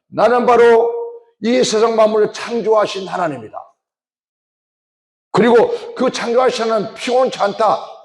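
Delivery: God answering his weary people, fervent; voicing God. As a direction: thunder out God's reply. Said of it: "그때 하나님께서".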